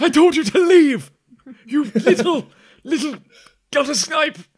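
high-pitched shouting. Describing a man yelling after someone he told to leave, retelling a shout. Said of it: "just like shouting after".

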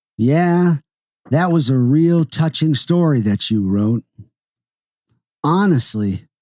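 ordinary delivery, nothing marked

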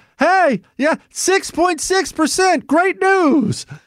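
high, slow, mock-cheerful voice.

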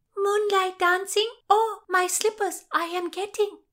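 very high, loud trilling. Brigitte, hearing talk of a revel, speaks up, trilled. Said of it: "Brigitte trilled".

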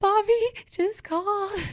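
very high, tearful, blubbered words, bawling sob. Retelling the call to her mom, imitating her own bawling. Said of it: "was bawling. And all I said was".

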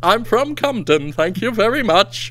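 fake rural English village accent. Joking about coming from an English village: put-on English village accent. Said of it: "that's my natural birth accent".

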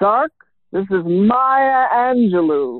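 lightly booming voice, name stretched out. Retelling a message on an answering machine, in Maya Angelou's booming voice. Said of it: "I heard this booming voice".

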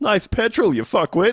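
very high-pitched, jeering, yelled. Retelling what the driver yelled at a guy filling his car: imitating a driver yelling. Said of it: "and yelled at a guy".

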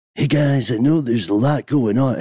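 put-on elderly politician voice. Imagining a president's tweet read aloud: Joe Biden impression. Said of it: "let me put my sunglasses on for a Biden impression".

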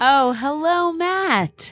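put-on, fake happy, cheerful tone. Greeting a co-host on the podcast: fake happy greeting. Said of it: "why are you guys always so fake happy?".

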